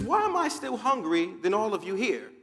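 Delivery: chicken's baffled protest; puzzled complaint. Acted. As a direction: ask it high, in bewilderment. Puzzled chicken questions the flock.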